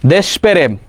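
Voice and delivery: দেশপ্রেম as desh-perem, no vowel after sh; rejected pronunciation. Shown as a demonstration. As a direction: split the cluster in দেশপ্রেম into pe-rem. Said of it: "এটা বাদ".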